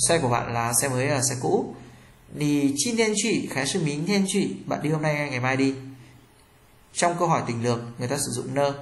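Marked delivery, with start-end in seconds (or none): 2.3-4.5 slow "Nì chin thiên truy" rising, then "khái sư mính thiên truy" falling; choice-question intonation. Shown as a demonstration. Teacher showing students the rising then falling tune. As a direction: draw out the first option, let the second fall. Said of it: "Thành phần trước, khái sự thì lên giọng".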